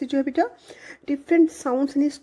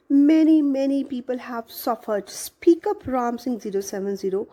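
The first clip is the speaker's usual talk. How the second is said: every word pressed hard, slow and deliberate; stressing each word; much slower than usual. A narrator's reading. Council man pushes the silent robot, stressing each word. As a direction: lean on each word to force an answer. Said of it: "stressed each word".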